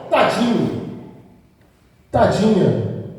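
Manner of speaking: drawn-out, falling pity; mock pity. Preacher showing how we behave, mock pitying. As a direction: imitate a sympathetic coo. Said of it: "não é assim que a gente se comporta?".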